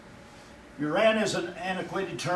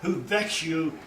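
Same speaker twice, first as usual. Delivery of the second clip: raised, solemn warning as God; a stern God warning his people; 2 semitones higher than usual. Acted. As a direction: thunder God's threat from the pulpit. Voicing God's warning.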